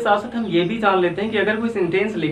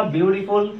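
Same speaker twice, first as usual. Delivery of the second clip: more beautiful और the most beautiful read out very slowly; slow recital of forms; much slower than usual. Shown as a demonstration. Teacher reciting the three degrees for students, very slow. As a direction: lay out each form slowly and clearly. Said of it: "ब्यूटीफुल का तीनों degree क्या हो गया".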